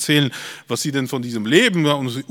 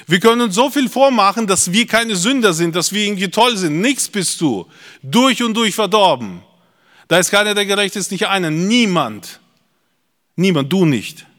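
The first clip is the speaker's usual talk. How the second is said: raised, emphatic preacher's voice; forceful preaching; 3 semitones higher, 5 dB louder than usual. Acted. Preacher confronts congregation about self-deception, forceful preaching. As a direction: preach it hard, driving each point home.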